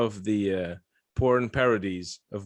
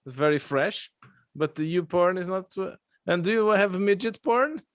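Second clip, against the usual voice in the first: lightly voiced customer in a higher pitch; put-on higher voice, listing things; mock customer; 6 semitones higher than usual. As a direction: play a needy caller, pitched up. Acts out a porn-seeking internet customer.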